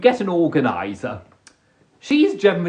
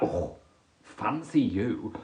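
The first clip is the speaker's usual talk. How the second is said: mock swooning; 8 semitones lower, 9 dB quieter, slower than usual. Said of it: "you're like".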